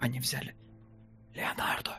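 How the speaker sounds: breathy, very quiet, hushed whisper. Retelling an agent's words to actors, whispering. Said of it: "и так шепотом так".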